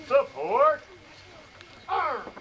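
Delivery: loud barked order, pitch leaping high on the last word; drill command. Shown as a demonstration. Instructor ordering support arms, a loud drill call. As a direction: bark it out to the ranks.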